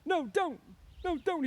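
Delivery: very high, loud protest; angry panic. A narrator's reading. Lenny to the crying woman, growing angry. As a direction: shout it in frantic anger. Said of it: "and Lenny grew angry".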